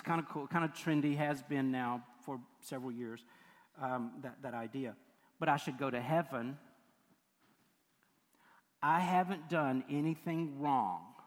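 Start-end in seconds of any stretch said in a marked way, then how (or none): 5.4-11.1 smug movie star. Retold or imitated. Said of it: "here was her answer".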